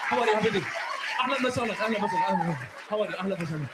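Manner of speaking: put-on rapid, repeated Arab-accented greetings; fast Arab talk. Comedian mimics Arabs talking like on cocaine, rapid-fire. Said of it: "Arab talk like they just on cocaine".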